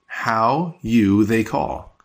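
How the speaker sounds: slow word-by-word delivery; slow literal gloss. Shown as a demonstration. Teacher repeating the literal gloss slowly. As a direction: space out each word of the gloss. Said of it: "But again, literally".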